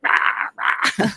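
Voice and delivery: short mock roars; imitated ranting roar. Raving man at bus passengers, mock roaring.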